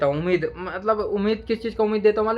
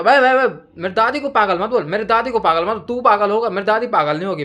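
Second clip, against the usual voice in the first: retold heated telling-off; indignant objection; 3 semitones higher, 6 dB louder than usual. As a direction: jump in hotly, defending your grandmother. Acted quarrel defending grandmother.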